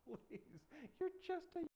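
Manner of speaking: high, laughing dismissal; mock-amused royal scoff; scoffing king. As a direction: laugh off the boy's offer. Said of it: "And the king's".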